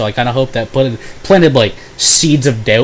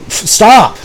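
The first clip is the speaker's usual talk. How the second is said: high, loud, teasing cry; mock outburst; 8 semitones higher, 5 dB louder than usual. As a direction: burst out laughing at him. Mocking him with Jordan.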